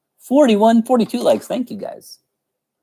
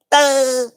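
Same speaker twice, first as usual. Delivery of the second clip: high, failed attempt at a cartoon laugh; SpongeBob; 12 semitones higher than usual. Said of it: "almost do the SpongeBob laugh".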